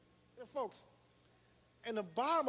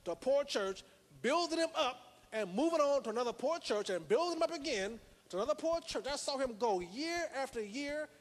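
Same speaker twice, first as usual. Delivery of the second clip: raised, emphatic testimony in driving repeated phrases; impassioned preaching; 4 semitones higher than usual. Real, not acted. Preacher telling the congregation of his grandfather's tireless faith, impassioned. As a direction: preach it with mounting conviction, stretching key phrases.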